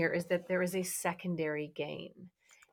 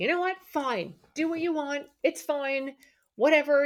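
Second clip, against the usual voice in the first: high, edgy, agitated irritation, acted out; 8 semitones higher, 6 dB louder than usual. Showing how some people sound claiming neutrality, imitating someone irritated, edgy. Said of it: "you can hear in there is this edge. There's a little bit of fear. There's irritation. There's agitation".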